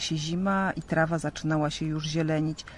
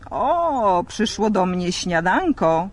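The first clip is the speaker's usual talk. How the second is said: delighted dragon; 2 semitones higher, 5 dB louder, slower than usual. Acted. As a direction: gloat over the sheep. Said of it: "ucieszył się". (smok uradowany widokiem owieczki)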